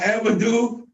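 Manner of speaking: "Amadou" slowly, no H, oo on the end; mispronounced name. Shown as a demonstration. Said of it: "not Amadou".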